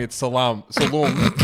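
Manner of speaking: "salum" with the final vowel dropped; clipped Italian ending. Shown as a demonstration. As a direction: say "salam, salum", cutting off the last syllable. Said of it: "You just take off the last syllable".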